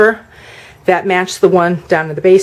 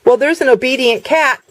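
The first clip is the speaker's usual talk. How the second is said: normal talking voice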